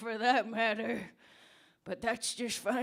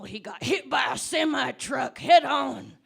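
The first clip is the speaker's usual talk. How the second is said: dramatic loud climax; 6 dB louder than usual. Acted.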